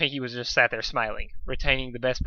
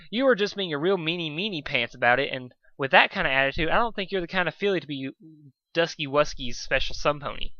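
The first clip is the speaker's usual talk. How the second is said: a lightly higher, sing-song party pony; Pinky, sweet and childish; 3 semitones higher than usual. Acted. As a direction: tease her like a bubbly little kid. Voices Pinky, sugary and childish.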